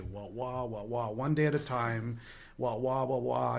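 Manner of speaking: droning wah-wah imitation; Charlie Brown's teacher. Newcomer mimicking the old-timers in meetings, wah-wah teacher drone. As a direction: imitate muffled, wordless teacher talk. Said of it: "sounded like Charlie Brown's teacher".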